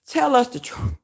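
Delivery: losing it on the quote; breaking into laughter. Retold or imitated. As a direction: quote dissolving into helpless laughter. Retelling the line that cracked her up.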